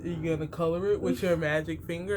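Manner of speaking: lightly voiced kids' party clown; a hint of a silly magic clown. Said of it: "Is that your clown voice?".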